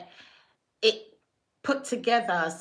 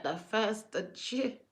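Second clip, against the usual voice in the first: slow, softer, disbelieving rising question; surprised question; 4 dB quieter, slower than usual. Retold or imitated. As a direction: ask it back in mild shock, drawn out. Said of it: "And I was like".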